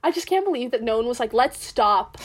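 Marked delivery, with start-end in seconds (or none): 1.3-2.2 mock studio exec. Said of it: "and they were like".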